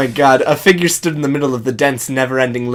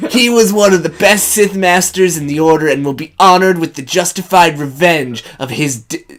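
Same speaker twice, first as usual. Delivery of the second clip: hero voice; 3 semitones higher than usual. Acted. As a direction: speak like a noble leader.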